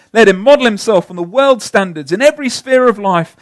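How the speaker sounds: loud, rising Bonhoeffer quote; impassioned quote. Acted. Preacher reading Bonhoeffer to the church, loud and fervent. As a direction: preach it with mounting force. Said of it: "I've got a lengthy quote here".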